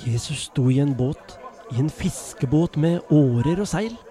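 put-on lively storyteller voice reading to children; story narration. A narrator's reading. Storyteller reading a Bible story to children, lively narration. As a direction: tell it like a bedtime Bible story.

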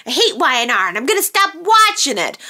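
fast, whiny mock of angry fans; mock fan tantrum; mocking complaint. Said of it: "People just said".

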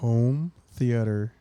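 "Home theater" said slowly, each sound careful; slow accented English. Shown as a demonstration. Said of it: "como que con un acento". ("Home theater" lento y marcado)

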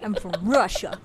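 put-on Russian accent slipping towards Chicago; laughing attempt at a Russian accent; bad Russian accent. Stranger boasting of origins, botched Russian accent. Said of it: "That was Chicago".

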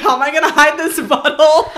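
loud high laughing mockery; mock him while laughing. Mocking the guy, laughing.

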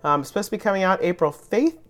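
hoarse, strained voice going; a voice that is nearly gone; losing voice. Real, not acted. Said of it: "I'm losing my voice".

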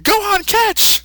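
high cartoon Goku voice, cocky. Goku taunting Buu and calling to Gohan, high and cocky. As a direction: grin through it, then call out the catch.

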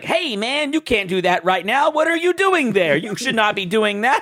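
hammed-up dubbing voice going up high on the questions; mock white dub voice. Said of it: "it sounds like white people".

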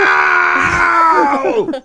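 high sharp yell; shouted no. Acted. Comic outburst in banter.

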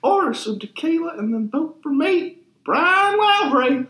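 put-on old prospector voice. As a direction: ham up an old Texas prospector. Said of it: "reading it in that stupid voice".

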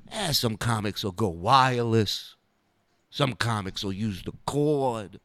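a hint of Dice's lazy drawling rhythm, x0.7; Dice's cadence. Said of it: "It's the cadence, it's the rhythm, it's the sound".

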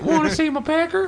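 very high squeaky little man; squeaky midget voice. Pretend. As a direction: pipe it up high and giggly. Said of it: "Knee-High, the P I".

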